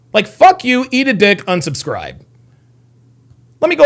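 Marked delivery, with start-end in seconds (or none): 0.1-2.2 angry outburst. Real, not acted. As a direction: spit it at the troll. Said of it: "Don't let these idiots get you heated".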